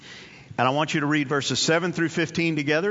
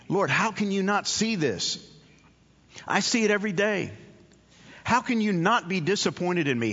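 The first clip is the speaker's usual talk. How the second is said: pleading prayer; 3 semitones higher than usual. Retold or imitated.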